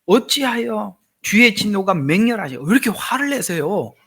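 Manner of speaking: high, loud demanding why; confronting God, pressing the question; indignant protest. Retold or imitated. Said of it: "이런 얘기잖아요". (따지듯 높고 크게)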